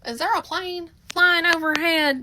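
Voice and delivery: hint at her being lost, deadpan; sarcastic inner thought. Retold or imitated. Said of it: "I was like".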